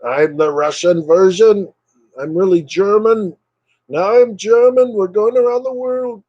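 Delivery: a playful character hopping from country to country; hammed-up globe-trotting voice; playful silly voice. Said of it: "Russian Dagon".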